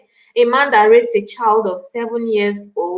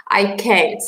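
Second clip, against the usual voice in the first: a bare whisper of defeat; whispering that she cannot bear it; 4 semitones lower than usual. Real, not acted. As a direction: breathe it out, unable to go on. Overwhelmed, answering herself.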